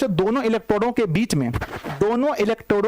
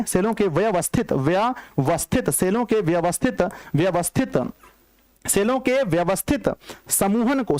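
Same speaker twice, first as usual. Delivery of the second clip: slow dictation; slower than usual. Shown as a demonstration. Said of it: "क्या लिखते हैं".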